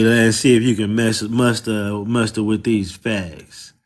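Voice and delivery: ordinary talk, nothing marked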